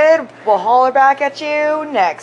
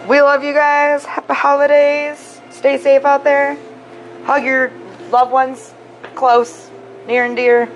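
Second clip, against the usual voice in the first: warm sign-off; 4 semitones higher, slower than usual. Real, not acted. Signing off to listeners.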